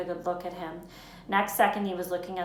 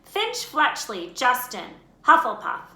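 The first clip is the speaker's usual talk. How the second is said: calling names out; 6 semitones higher, 8 dB louder, slower than usual. Acted. Names called at the Sorting.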